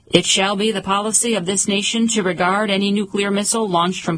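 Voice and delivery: lightly voiced Boston Brahmin speech; formal address with a hint of Boston; Kennedy Boston accent. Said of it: "Who talked like that?".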